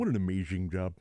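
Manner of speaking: a hint of rambling sportscaster; Bill Walton. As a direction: marvel in a mild slurred impression. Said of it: "then we need Bill Walton sitting somewhere".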